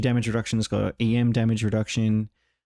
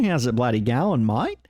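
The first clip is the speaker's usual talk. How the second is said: hammed-up ocker Australian accent; ocker Aussie. Gamer auditioning Aussie voice lines, ocker Aussie. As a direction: lay on a broad Aussie accent a little. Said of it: "ochre Aussie voice lines".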